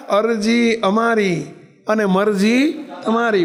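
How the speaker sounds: slow, every word set apart; slow emphatic maxim. Shown as a demonstration. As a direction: spell out the lesson for the listeners. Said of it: "કયો વિચાર રાખો હંમેશા?". (ધીમે, ભાર દઈને બોલાતું સૂત્ર)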